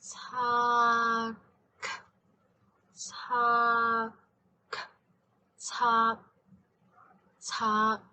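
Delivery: Tak with the K split off; slow, separated K. Shown as a demonstration. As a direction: Tak slowly, K apart. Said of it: "separate the final K".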